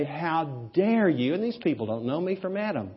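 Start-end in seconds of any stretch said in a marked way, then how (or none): 0.0-1.3 slow, drawn-out indignant "How dare you?" with weight on "dare"; a touch of wounded pride, slowly; mild mock outrage. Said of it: "When I want to rise up and say".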